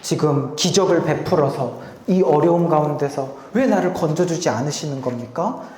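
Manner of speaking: rising, pleading lament; understated anguished plea to God; mild outcry. Retold or imitated. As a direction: cry out to a silent father. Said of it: "울면서 절규하면서 하셨을까?".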